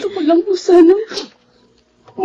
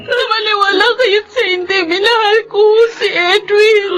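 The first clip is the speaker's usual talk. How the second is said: tearful plea. Acted. Woman pleads with grieving mother.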